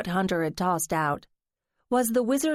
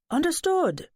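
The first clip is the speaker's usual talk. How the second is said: grand dramatic exclamation, higher; theatrical high; 9 semitones higher than usual. Acted. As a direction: sing it out high and bright. Lance answers with flourish.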